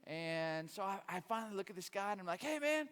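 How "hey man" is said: loud, high plea mid-race; winded runner. Retold or imitated. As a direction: call out to the runner beside you. Asks old runner mid race.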